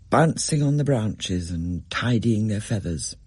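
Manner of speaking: usual speaking voice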